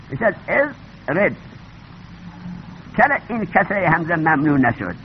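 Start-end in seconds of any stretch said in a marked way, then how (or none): 0.1-1.4 slow ازرد, opening on a short e; kasra on the hamza. Shown as a demonstration. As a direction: sound out ازرد with "e" in both syllables. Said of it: "همزه را کسره میدیم". (ازرد، آهسته با کسرهٔ همزه)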